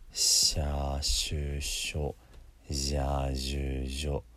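"シャーシュショ、ジャージュジョ" with tongue spread and narrowed; slow drill of "シャーシュショ、ジャージュジョ", vowels held; 舌を横に広げて. Shown as a demonstration. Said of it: "舌が横に広がって狭くなりますからね". (「シャーシュショ、ジャージュジョ」を伸ばして手本)

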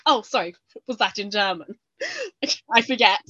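fake-casual showing off, laughing through it; mock-innocent show-off. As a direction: play dumb while bragging, giggling. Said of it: "I'd just be like".

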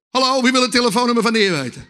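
rousing call. Real, not acted. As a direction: call out to wake up the crowd. Repeats question to rouse the congregation.

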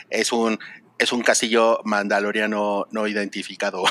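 robotic voice, laughing through it; computer processing. Retold or imitated. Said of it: "así con esa voz robótica".

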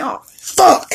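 "Oh, fuck." said high with a rising lift; surprised oh fuck. Shown as a demonstration. Showing listeners the startled version of oh fuck. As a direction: pitch "fuck" up like a startled exclamation. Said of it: "different tones mean different".

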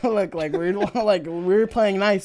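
teasing imitation of corporate smack talk; shit-talky. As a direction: needle them lightly through a chuckle. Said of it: "shit talky".

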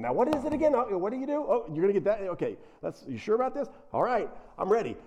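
lightly voiced doubtful king; mock eager Saul. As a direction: play Saul keen but unsure, asking again. Saul voiced asking again and again.

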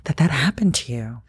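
a hint of tears while comforting yourself; tender self-apology. Real, not acted. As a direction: apologize gently to your younger self. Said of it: "right now".

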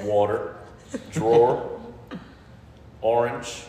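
Jersey words, one at a time; Jersey accent. Shown as a demonstration. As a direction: lean into New Jersey vowels. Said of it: "deepest Jersey words that you can say".

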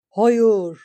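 sharp loud cry. A narrator's reading. Eriyen cries out as Drake's sword falls, loud. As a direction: cry out in protest.

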